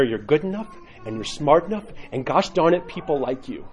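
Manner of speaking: lightly imitated self-affirmation in the mirror; a hint of a comic pep talk to oneself; Stuart Smalley. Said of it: "like Stuart Smalley, you remember that from S N L".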